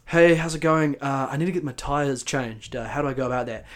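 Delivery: politely formal, measured enquiry; formal phone manner. Retold or imitated. Customer ringing the tyre shop receptionist, politely formal. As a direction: put on a mildly formal phone voice. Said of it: "I was very formal".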